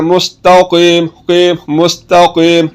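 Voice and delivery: slow मुस्तकीम with a thick back q in कीम; heavy qaf. Shown as a demonstration. Teacher modelling the thick letter, heavy qaf. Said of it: "कॉफ को आपने मोटा पढ़ना है".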